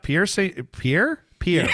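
tipsy stumbling over the name. Real, not acted. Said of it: "I'm so drunk right now".

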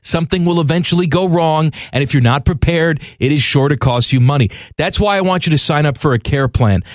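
host-read sponsor spot, measured and even; radio ad read. Real, not acted. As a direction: read the ad copy as a friendly pitch. Reads a sponsor ad.

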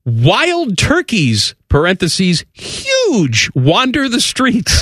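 slow, high-pitched mock amazement; incredulous read-out. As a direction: stretch each word in disbelief. Reads out article with incredulous emphasis.

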